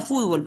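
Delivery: fútbol with the weight on FÚT; stress on first syllable. Shown as a demonstration. Teacher explaining local usage, fútbol stressed on the first syllable. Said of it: "nosotros lo usamos como grave".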